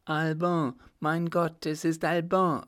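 höher, erschrockener Ausruf; heftig erschrocken. A narrator's reading. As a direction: wie vor Schreck aufschreien. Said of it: "rief sie auf das heftigste erschrocken". (Frau Richemont erkennt den Verfolger, erschrocken)

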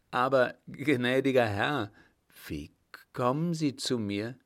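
hesitant, frightened stammer with a break after wie. Acted. The startled director to the captain, stammering in fear. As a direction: stumble over the words in fright. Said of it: "stammelte der Direktor".

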